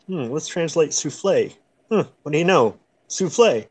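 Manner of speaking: lightly voiced Clark Griswold, pleased with himself; a hint of a clueless tourist dad. Tourist reading a French menu, a hint of Clark Griswold. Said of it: "I could be like, Clark Griswold".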